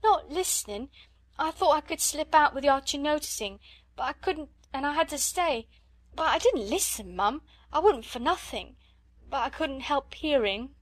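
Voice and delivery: scullery maid begging her mistress's pardon; frightened maid. A narrator's reading. Maid protesting innocence.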